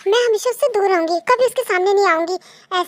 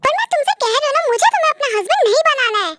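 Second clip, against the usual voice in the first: brisk, annoyed refusal; mildly angry, hurried protest; 4 semitones higher than usual. Acted. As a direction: push back in exasperation, quickly. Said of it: "आप इतना गुस्सा क्यों कर रहे हो".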